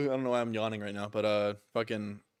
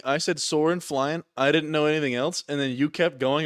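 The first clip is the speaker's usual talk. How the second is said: excited; 5 semitones higher, 7 dB louder than usual. Retold or imitated. Retelling singing along.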